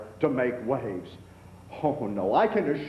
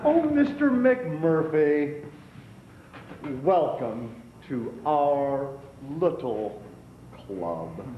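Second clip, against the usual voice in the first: mock welcome; slower than usual.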